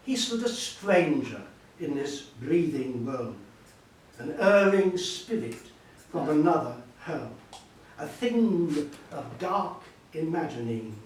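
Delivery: measured, weighty verse reading; poetry recitation. Acted. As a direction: declaim the lines slowly, with long pauses between phrases. Reads Byron's poem aloud.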